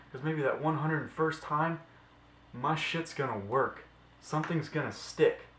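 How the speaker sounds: rally them, never give up; fired-up pep talk. Real, not acted. Passionate pep talk against doubters.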